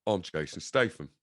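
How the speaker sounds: imitating a botched English accent; mock an American comic attempting English; American's bad English accent. Comic mimics Americans doing Brits, bad English accent. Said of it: "an English accent".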